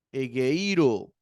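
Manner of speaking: "Egeiro" slowly, stressed on the I; careful model "Egeiro", accent on the iota. Shown as a demonstration. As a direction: lean on the I in "Egeiro". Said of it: "Acento en la iota".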